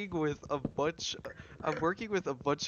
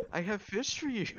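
mock sleazy Irish-free line, higher; mock creepy line; 8 semitones higher than usual. Teasing a friend, echoing his line as a creepy offer. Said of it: "when you said".

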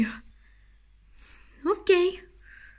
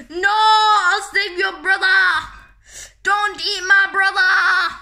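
heroic cry; 3 semitones higher than usual. Acted. Hero pleading in play.

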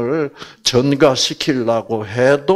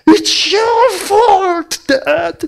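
high, drawn-out crying wail; hammed-up child blaming her dad; crying blame; 6 dB louder, much slower than usual. Daughter blaming her father through tears, high wail. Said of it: "막 그러면서 막 가슴을 때리는 거야".

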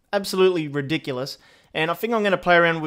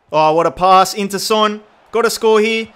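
loud, rising excitement; excited commentary; 5 semitones higher, 7 dB louder than usual. Real, not acted. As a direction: call the chance louder and higher as it builds. Live chance at goal.

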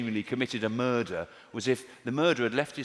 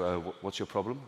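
chemist's retort; 5 semitones lower, 5 dB quieter than usual. Retold or imitated. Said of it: "the chemist would go".

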